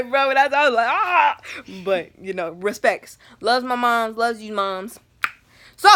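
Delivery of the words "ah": high, loud "ah" of mock crying. Daughter trying not to cry, mock high wail. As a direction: burst out in a pretend cry. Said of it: "I was trying not to cry".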